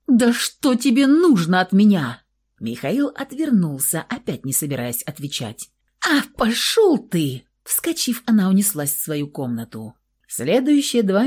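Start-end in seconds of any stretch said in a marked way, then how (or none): 0.1-2.2 громко, выше обычного, на нервах; с напором требовать ответа; возмущённое требование. A narrator's reading. В отчаянии требует ответа. 6.1-7.4 высоко, растягивая слова; в сердцах послать собеседника; злой выкрик. A narrator's reading. Ругается и убегает.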